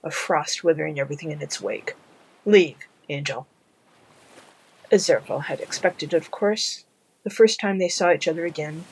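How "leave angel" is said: icy. Acted. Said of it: "Crowley's voice was bitingly cold".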